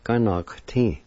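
"ganakti" as one careful word; whole-word pronunciation. Shown as a demonstration. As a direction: say "ganakti" clearly for a learner. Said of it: "is pronounced like this".

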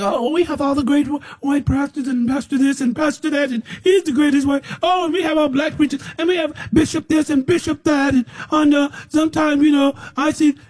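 high, mocking voice of bragging preachers; mock boastful preachers. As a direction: lampoon their self-praise up high with a mock shout. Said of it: "You just think".

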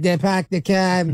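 lightly imitated Boston accent, dragged out; mock Boston accent. Mimicking two guys walking in, mock Boston accent. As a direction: poke fun with a slow Boston accent. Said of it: "like, the, the Boston accent".

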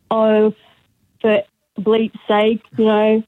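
high, mock exasperated sister; imitating a rant. Sister ranting on the phone about her husband, mock exasperated. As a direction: rant like you've had it with him. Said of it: "mid-rant".

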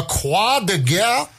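the Croix de Guerre in an exaggerated French accent, slow. Shown as a demonstration. Radio host showing off his best French accent. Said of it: "that's my best French accent".

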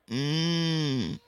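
put-on small toddler grunt; baby grunt. A narrator's reading.

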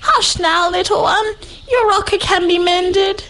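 cooing. A narrator's reading. Mama koala cuddling her crying baby, tender coo. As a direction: soothe the baby gently. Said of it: "she cooed".

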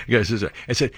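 ordinary talk, nothing marked

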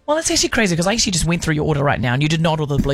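fast, indignant rebuttal; defensive clerk. Acted. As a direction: argue back at the customer. Acted rude clerk arguing.

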